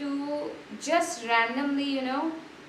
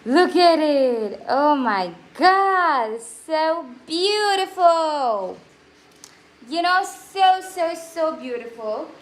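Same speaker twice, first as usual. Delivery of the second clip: slow, awed delight; 5 dB louder, slower than usual. Real, not acted. Admires her painting.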